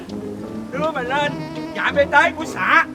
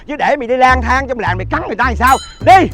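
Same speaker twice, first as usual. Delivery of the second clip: wütend; 5 semitones higher, 4 dB louder, faster than usual. Acted. Onkel schleppt Jungen weg.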